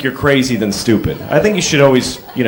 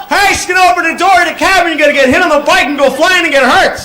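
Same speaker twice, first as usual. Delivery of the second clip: fast, high shouted warning; rushed warning yell; 11 semitones higher than usual. Retold or imitated. Warning the cyclist about the cab door, a fast high yell. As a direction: blurt the whole warning at speed. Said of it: "I couldn't go like".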